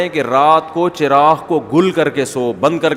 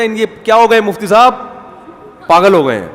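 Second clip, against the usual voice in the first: onlooker exclaiming; 3 semitones higher, 3 dB louder than usual. Retold or imitated. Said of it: "دیکھ لیتا، تو بولتا".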